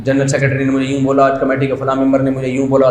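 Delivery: mock tale of being wronged, mostly hushed; imitated victim complaint. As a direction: play the wronged imam confiding his grievances. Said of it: "مظلومیت کی داستانیں ہر ایک کے سامنے بیان کرتا ہے". (مظلومیت کی داستان سنانے کی نقل)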